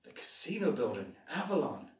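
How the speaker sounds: scared realization. Shown as a demonstration. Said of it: "surprise is right, but you're more scared".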